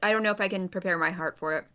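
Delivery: chewing while talking; talking through a mouthful; mouth full. Real, not acted. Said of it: "Sorry, I'm chewing".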